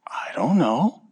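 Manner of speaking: a hint of a wondering small boy; lightly voiced child. Son answering Daddy's question, whispery wonder.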